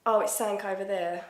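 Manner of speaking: everyday Essex talk with "sank" for something; Essex accent. Acted. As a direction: demonstrate a casual Essex accent. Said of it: "an Essex accent".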